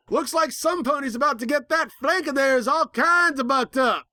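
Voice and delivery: high, teasing mock gasp voice. A narrator's reading. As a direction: tease the villain like gossip. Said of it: "hoof mockingly covering my mouth".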